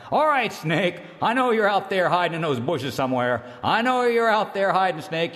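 stern scolding. Acted. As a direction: call him out sharply from the bushes. Earthmaker scolding hiding Snake.

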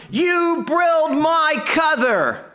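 high, slow, furious mock yell; hammed-up rage of a giant pecan log; angry yelling. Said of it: "And he was yelling".

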